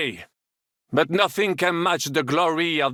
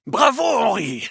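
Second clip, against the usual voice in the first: cheer; 4 semitones higher, 5 dB louder than usual. Acted. Henri arrives to help.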